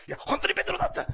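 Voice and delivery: high, loud, breathless-with-news protest; acted excited insistence. Preacher playing the disbelieved witness of Peter, excited insistence.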